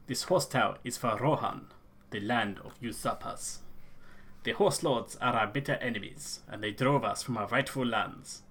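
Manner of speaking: Elder in a lightly put-on rustic accent; solemn clan elder in a hammed-up accent; a hint of a bad fantasy accent. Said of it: "this fucking accent I'm going for".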